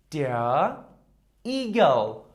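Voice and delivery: Igel said EE-gel, long ee; model word. Shown as a demonstration. Teacher modelling Igel for the class, clear. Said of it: "Repeat after me".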